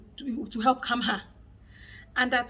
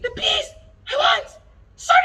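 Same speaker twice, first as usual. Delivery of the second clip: put-on child forced to say please; forced whiny please; 12 dB louder than usual. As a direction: whine it out like a child made to say it. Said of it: "forcing her to say it".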